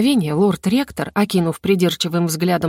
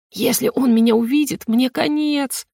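higher, fretful wailing under her breath; wailing lament; 6 semitones higher than usual. A narrator's reading. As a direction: moan it like doom is coming. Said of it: "причитала мне на ухо Катька".

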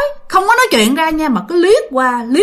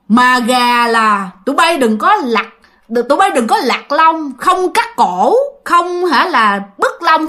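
mock possessed voice demanding boiled chicken; creepy spirit voice; 3 semitones higher, slower than usual. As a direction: drag the words out like a hungry ghost. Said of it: "mà cái giọng rất là ghê".

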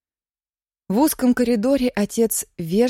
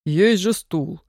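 gently; slower than usual. Acted. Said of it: "мягко сказал человек в кителе".

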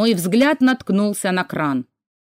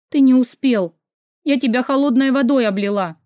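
stammering, sobbing; 5 semitones higher than usual. A narrator's reading. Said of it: "заикаясь и всхлипывая".

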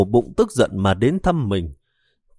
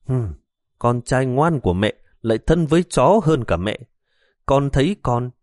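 reproachful; 4 semitones higher than usual. Acted. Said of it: "oán trách".

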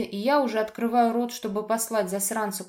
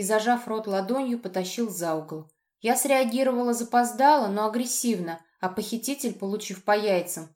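ordinary delivery

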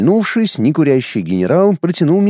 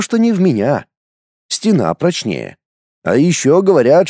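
usual speaking voice

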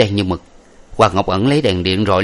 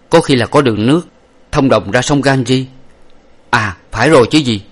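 lightly higher, louder dawning hope; hopeful hero; 4 semitones higher, 4 dB louder than usual. Acted. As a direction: realize there may be an escape. Hero glimpses a way out.

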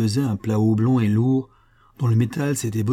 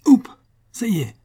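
cheerful; 12 semitones higher, 6 dB louder than usual. A narrator's reading. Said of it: "dit gaiement Sonra".

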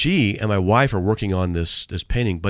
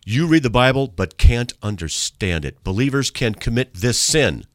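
mock yell; 3 semitones higher, 4 dB louder than usual. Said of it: "he's yelling it".

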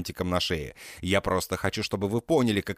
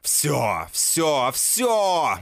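building scream, much higher and louder; shriek; 7 semitones higher, 3 dB louder, much slower than usual. A narrator's reading. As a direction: screech it, rising each time. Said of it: "Я начинаю визжать".

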